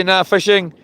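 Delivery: usual speaking voice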